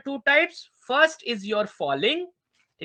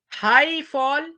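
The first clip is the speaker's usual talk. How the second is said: drawn out, pitched high; 6 semitones higher, 4 dB louder, much slower than usual. Shown as a demonstration. Student reciting the intonation subtypes, high and slow. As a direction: lift the voice high and stretch it. Names high fall, voice goes high.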